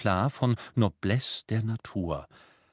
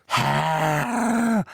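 bullfrog croak, higher and louder; croaking elf; 6 semitones higher, 5 dB louder than usual. A narrator's reading. Creature croaking to his new master. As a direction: croak a grudging greeting. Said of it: "krächzte Creature mit seiner Ochsenfroschstimme".

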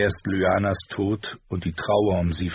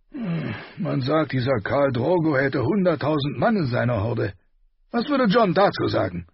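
higher, brooding king voice; gruff king; 7 semitones higher than usual. A narrator's reading. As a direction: muse aloud like a gruff king. Robert voiced in audiobook.

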